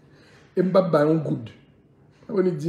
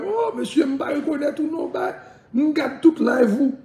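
high mock plea; 10 semitones higher than usual.

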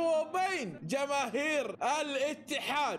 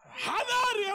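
loud warning; 11 semitones higher, 4 dB louder, much slower than usual. Real, not acted. Warning to the rivals.

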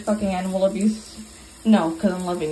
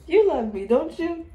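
put-on baby talk; 6 semitones higher than usual. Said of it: "I'm just like".

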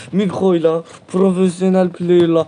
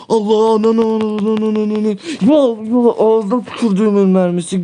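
furious outburst; 4 semitones higher than usual. Real, not acted. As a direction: blow up at the game. Ultimate fails, gamer curses.

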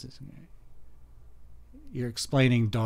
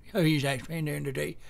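quick, quiet attempt at Mater; 4 dB quieter, faster than usual. Shown as a demonstration. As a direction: toss off a rough Mater impression. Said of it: "I could do my Mater voice".

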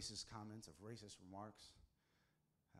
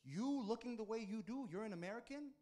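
high, loud suspicious officer voice; doubtful officer; 11 semitones higher, 6 dB louder than usual. Retold or imitated. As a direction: scoff like a disbelieving border guard. Officer doubts his passport.

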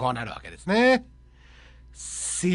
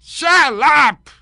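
slow, louder menacing hijacker; 5 semitones higher, 6 dB louder, much slower than usual. Acted. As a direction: bark the demands like a movie hijacker. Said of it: "ハイジャッカー。".

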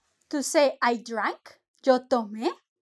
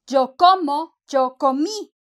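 Yo como with the o, then yo comí with stressed í; contrast the endings; 4 dB louder than usual. Shown as a demonstration. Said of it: "con acento".

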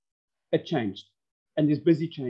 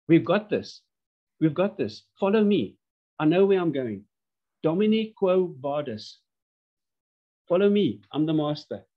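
confident leader. Pretend. Leader rallying staff.

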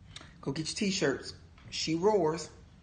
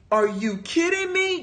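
reenacted high-pitched disbelief; incredulous reaction; 8 semitones higher than usual. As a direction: voice leaps up as if you can't believe it. Acts out her disbelieving reaction.

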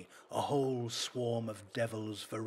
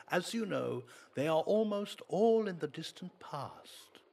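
lofty priest, higher and louder; priest's voice; 9 semitones higher, 7 dB louder than usual. Acted. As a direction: lecture him like a smug priest. Priest boasting in story.

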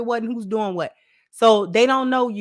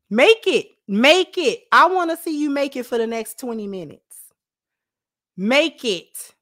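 stern dare; 5 semitones higher than usual. Retold or imitated. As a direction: dare them to make it on their own. Parent daring the child.

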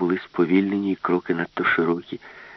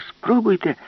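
much higher, louder taunt; defiant dare; 13 semitones higher, 4 dB louder than usual. Acted. Alice taunts the ship's brain, high loud dare. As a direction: dare it to try.

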